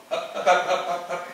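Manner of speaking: loud hammed-up martial arts cries; loud mock fight yells; mock kung fu shouts. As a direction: bark it like a kung fu film fighter. Mimicking kung fu film fighting.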